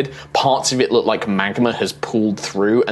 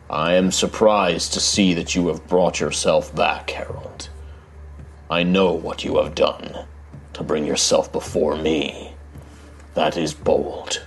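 deep rumbling voice; 4 semitones lower than usual. Acted. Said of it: "this deep rumbling voice".

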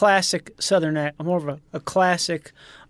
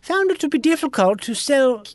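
put-on George W. Bush without the accent; 3 semitones higher than usual. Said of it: "Can you do a George W. Bush impression and lose the accent".

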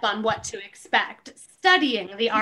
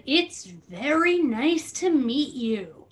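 mock perfect tone; slower than usual. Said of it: "Perfect tone, perfect inflection".

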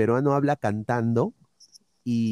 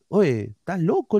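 retold protest in a higher voice; indignant protest; 6 semitones higher than usual. Man retelling how he answered doubters in Lima, indignant. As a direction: act out a high-pitched, affronted comeback. Retold quarrel over his origin.

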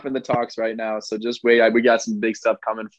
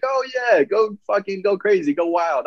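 mock cheering; 8 semitones higher than usual. Mocking everyone's cheering response.

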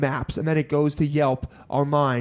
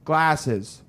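deadpan repetition; much slower than usual. Shown as a demonstration. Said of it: "So look, I'm gonna say".

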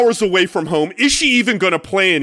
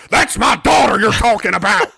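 angry redneck dad; 4 semitones higher, 3 dB louder than usual. Retold or imitated. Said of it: "goes bonkers".

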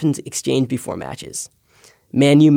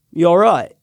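mock-gruff greeting, higher with a falling end; 4 semitones higher, 3 dB louder than usual. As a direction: imitate a footballer's gruff, brief greeting. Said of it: "He gave me a gruff".

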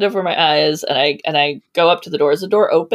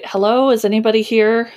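raised-pitch hello into an empty house; calling out; 5 semitones higher than usual. Acted. Susan calls into the abandoned house for her friends, calling out. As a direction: call out to see who is there.

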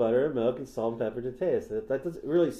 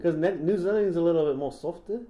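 put-on New Zealand accent, lilting up at the ends; 3 semitones higher than usual. Shown as a demonstration. Host demonstrating his New Zealand accent to co-host. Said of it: "I do a more better New Zealand accent".

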